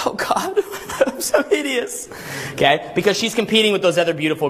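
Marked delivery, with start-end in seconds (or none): 0.1-2.1 high, laughing, hammed-up wail of self-pity; mock despairing model. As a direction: play the insecure model, whining through a laugh. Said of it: "And she's like".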